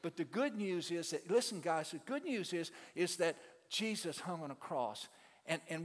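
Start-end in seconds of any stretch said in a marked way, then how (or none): 1.3-5.1 raised, fervent preacher call; preaching to inmates. Retold or imitated. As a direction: preach it to the boys. Preaching to prison kids.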